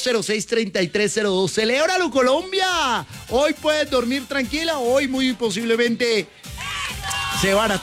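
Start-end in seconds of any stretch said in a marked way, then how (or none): 1.5-6.3 excited. Real, not acted. Host hails the win.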